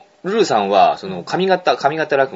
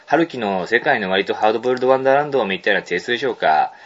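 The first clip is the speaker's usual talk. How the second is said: mail reading. Acted. Radio host reading a listener's mail aloud, measured mail reading. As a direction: read a letter out in unhurried phrases.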